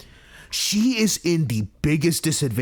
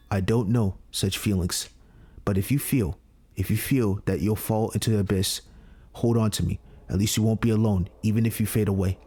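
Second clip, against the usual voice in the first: tender; 4 semitones lower than usual. Acted. Voicing Justin comforting her.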